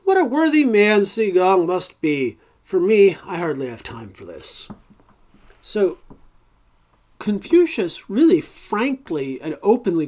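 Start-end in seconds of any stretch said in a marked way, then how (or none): 0.0-4.7 dry mock praise; sarcastic. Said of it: "remarked sarcastically".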